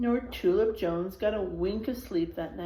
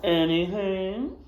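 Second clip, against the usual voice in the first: sly grin; slower than usual. Acted. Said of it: "said the widow with a grin".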